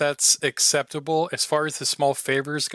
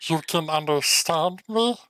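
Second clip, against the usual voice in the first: lightly voiced fox, higher and wondering; a small fox's tentative question, pitch lifted; fox in clean voice; 4 semitones higher than usual. Fox finds a human understands him, lightly voiced wonder. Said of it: "I'm gonna do this in the clean voice".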